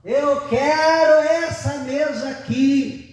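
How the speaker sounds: put-on high, slow whiny child voice; boy to grandma, refusing the table, whiny high voice; bratty child. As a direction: play a stubborn kid refusing, drawn out. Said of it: "Ele disse".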